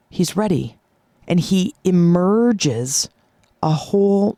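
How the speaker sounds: slow, drawn-out storytelling; slow, wondrous climax with long pauses; dramatic story narration. Acted. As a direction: draw out each phrase to unveil the transformation.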